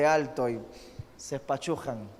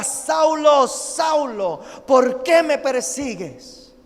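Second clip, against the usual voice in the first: calling voice from heaven; 6 semitones higher, 6 dB louder, much slower than usual. Acted. Voice from heaven calls Saul.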